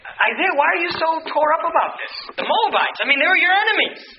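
lightly acted, high-pitched questioning; puzzled questioner. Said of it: "you ask this question, you say".

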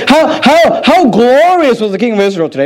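a sneering, sing-song lilt on "How, how, how glorious"; mock condescending. Wife mocking the king her husband, lightly condescending. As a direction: mimic the scornful wife, mildly. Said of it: "condescending and belittling him".

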